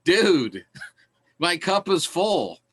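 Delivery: a hammed-up frustrated student; exasperated outburst. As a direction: burst out like a man whose patience just snapped. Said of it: "he just goes".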